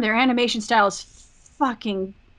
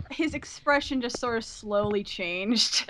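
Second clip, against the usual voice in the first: slowing down into laughter; amused, laughing; 7 dB quieter, slower than usual. Real, not acted. Telling friends about a webcam reaction, real laughter breaking in. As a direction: crack up as you draw it out.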